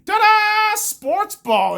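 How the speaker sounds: high, loud showman's ta-da; ta-da flourish. Pretend. Showing kids how he controls emotions, mock flourish. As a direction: present it like a magic trick. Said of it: "this is controlling my emotions, kids".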